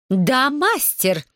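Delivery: put-on a mistress roaring at a slave girl to say master; roaring correction. A narrator's reading. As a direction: drag out the "Да, мастер!" as a furious lesson. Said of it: "взревела миссис Дельфина".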